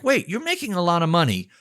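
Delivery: acted disbelief. Advisor confronting a high-earning client who is broke, acted disbelief. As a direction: stop them with puzzled disbelief.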